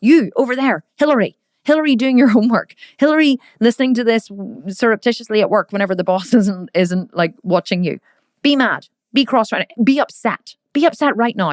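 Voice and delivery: mock command. Host calling out listener Hillary at work, mock commanding. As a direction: point at the listener and command them, half-joking. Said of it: "I could be like".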